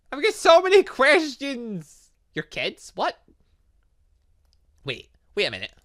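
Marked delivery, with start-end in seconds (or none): none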